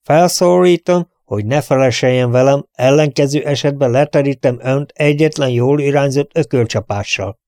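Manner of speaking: put-on a prince threatening his old butler, stern and grand; stern and dignified. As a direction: lay down the law with offended dignity. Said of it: "mondta szigorúan és méltóságteljesen".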